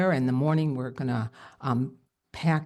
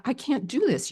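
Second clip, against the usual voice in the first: retold panic; 7 semitones higher than usual. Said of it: "I have this fear".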